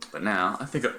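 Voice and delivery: talking with the hiccups; hiccuping between words. Real, not acted. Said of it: "I got the hiccups".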